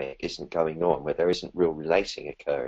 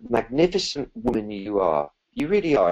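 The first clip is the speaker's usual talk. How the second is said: rising into a higher, gushing kind voice; kindly voice; 5 semitones higher than usual. Shown as a demonstration. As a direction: praise yourself warmly, building up excitement. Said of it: "in a kindly voice".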